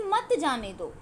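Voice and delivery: "मत जाने दो" as one falling phrase; phrase after pause. Shown as a demonstration. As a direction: keep मत joined to जाने दो, falling at दो. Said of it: "उसके बाद लिखा हुआ है कि".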